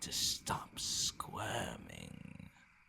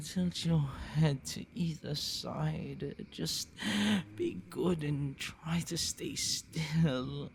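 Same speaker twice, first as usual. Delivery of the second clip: higher and eager, hunger unleashed; eager vampire; 3 semitones higher than usual. Acted. Vampire instructing the human before biting, eager. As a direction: coax her prey, thrilled and impatient. Vampire starts feeding, excited.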